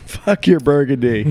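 slow, drawn-out snobby sneer; mock snooty. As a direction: sneer it like a wine snob. Mock snooty toast, laughing.

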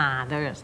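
"others" wrongly opened with a long ah; long AH, mistaken. Shown as a demonstration. Teacher showing the mistake, "others" with long ah. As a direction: drag "others" out as AH-ders. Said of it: "ไม่ใช่ others นะ".

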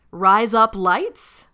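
put-on "Rise Up Lights" said slowly in an Australian accent, sounding like "razor blades". Saying it for the guest in an Australian accent. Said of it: "razor blades in Australian".

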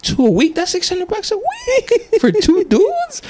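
high, slow, laughing disbelief; incredulous. Retold or imitated. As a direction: stretch it out in shock. Outraged at the low price.

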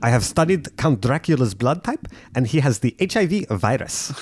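lightly put-on South African voice; a hint of a South African villain; South African accent. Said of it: "Her voice".

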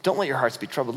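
low-key word to the guys; casual paraphrase. Acted.

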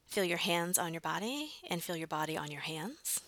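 whispered guidance. Acted. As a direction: breathe the words out in a whisper. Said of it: "whispered instruction".

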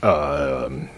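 slow, halting announcement with ums and pauses; lightly voiced airline pilot. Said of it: "my pilot voice".

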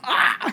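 high comic yelp; mock scream of shock. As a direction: yelp as if caught out. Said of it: "He's just like".

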